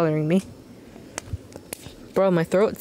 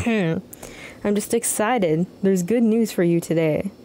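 voice for her; slower than usual. Acted. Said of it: "what was the voice I gave her?".

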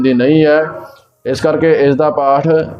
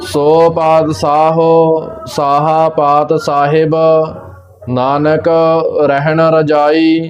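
slow, measured Gurbani recitation with held vowels; scripture recitation; slower than usual. Shown as a demonstration. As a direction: recite it slowly, drawing out each word. (ਠਹਿਰ ਕੇ ਗੁਰਬਾਣੀ ਪਾਠ)

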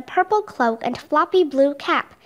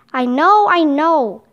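impatient cut-in, a little louder; interrupting; 4 dB louder, slower than usual. Acted. Marco interrupts Leonardo's familiar tale, mildly impatient. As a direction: cut in as if heard before. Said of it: "interrupted Marco".

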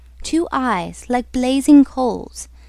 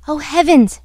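louder, higher cry of dismay; alarmed cry; 5 semitones higher, 6 dB louder than usual. Acted. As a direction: cry out in sudden dread. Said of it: "she cried".

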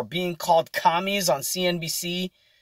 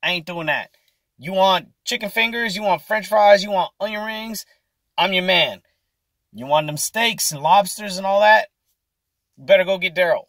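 a lightly voiced cook refusing, a bit higher; dismissive fry cook; 4 semitones higher, 4 dB louder than usual. Fry cook turns down the manager, lightly voiced refusal. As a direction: shrug it off, eyes on the fryer.

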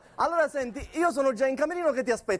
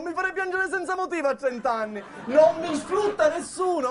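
indignant protest; 6 semitones higher than usual. Acted. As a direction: insist hard that nobody exploits you. Protests to his mother on the phone.

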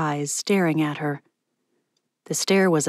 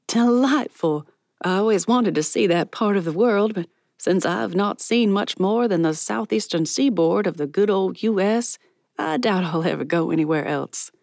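lightly voiced delighted woman; 2 semitones higher than usual. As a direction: open delighted, then ease down wistfully. Voices Miss Patty, delighted, chatting.

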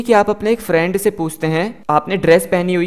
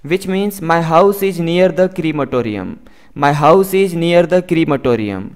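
very slow, careful English for learners; slow model sentence; much slower than usual. Shown as a demonstration. Teacher reading the example slowly to students. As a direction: spell each word out slowly for the class. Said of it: "teacher model sentence".

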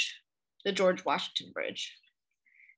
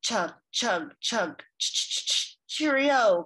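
chugging tugboat; much slower than usual. Acted. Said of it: "called the fat black tug as it puffed".

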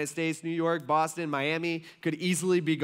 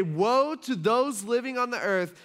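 mock heavenly shout; 7 semitones higher, 4 dB louder than usual. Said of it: "they shout out".

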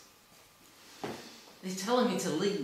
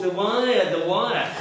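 mocking the doctor; 4 dB louder, slower than usual. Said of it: "on and on he goes".

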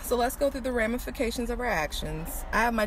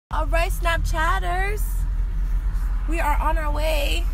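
upbeat announce; 8 semitones higher, 5 dB louder than usual. Real, not acted. Upbeat vlog sign-off.

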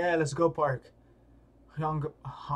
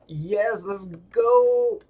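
higher, louder rising cheer; 4 semitones higher, 7 dB louder, much slower than usual. Acted. Hyping the fighter before the match, cheering.

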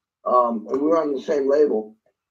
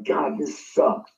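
bummed out; 4 dB quieter, much slower than usual. Retold or imitated. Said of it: "really bummed out".

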